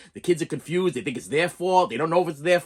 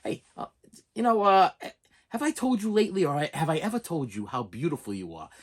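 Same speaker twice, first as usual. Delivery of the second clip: tender compliment. Shown as a demonstration. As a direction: coax it out gently, like a child to mom. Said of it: "just go up to mommy today and say".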